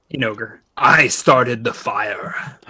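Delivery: slow, loud ogre shout. Acted. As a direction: bellow it out in ogre.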